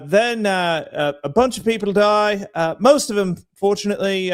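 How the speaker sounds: put-on Irish accent, slipping towards English. Shown as a demonstration. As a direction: keep up a wobbly Irish lilt. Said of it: "in an Irish accent?".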